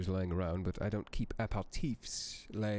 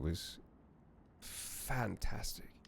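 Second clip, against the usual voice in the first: hushed; 6 dB quieter, much slower than usual. Real, not acted. Fondly recalling a book.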